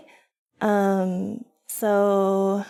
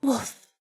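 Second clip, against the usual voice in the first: playful spoken bark; imitated dog woof. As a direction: mimic a small bark to the dog. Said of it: "You gonna woof again?".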